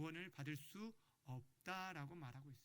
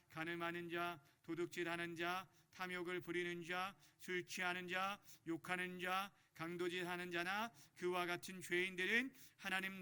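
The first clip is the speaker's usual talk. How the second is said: even, measured list reading; deliberate monotone congregational reading; catechism recitation; 4 dB louder than usual. Acted. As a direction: recite each item steadily for a group to follow.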